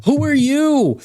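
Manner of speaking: incredulous outburst. Real, not acted. Outraged at the other caller.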